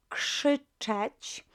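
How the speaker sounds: teacher models "krzyczeć" with KRZ sounding like KSH. Shown as a demonstration. Teacher shows the verb to shout, KRZ pronounced KSH in "krzyczeć". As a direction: say "krzyczeć" starting with a KSH cluster. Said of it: "K R Z is pronounced as".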